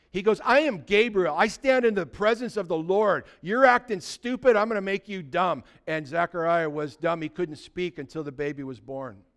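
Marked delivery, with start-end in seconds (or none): 0.5-5.7 play-acted cross, indignant, angry delivery. Retelling Gabriel's reply to Zechariah: imitating upset Gabriel. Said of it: "And Gabriel gets upset".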